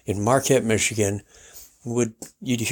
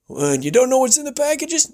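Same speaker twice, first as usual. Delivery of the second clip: radio host; 13 semitones higher than usual. Retold or imitated. Host imitated welcoming guest, high showman voice. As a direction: roll it out like a ranch host. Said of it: "talk about something".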